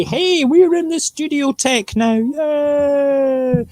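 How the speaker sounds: high, slow chirpy gadget voice; mock phone voice. Phone announcing the studio switch, high chirpy mock voice. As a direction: chirp it like a cheerful phone alert. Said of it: "give us any feedback and say".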